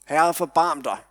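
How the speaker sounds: mild mock call for mercy; retold cry for mercy. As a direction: call out, pleading but held back. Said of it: "så råber det her menneske".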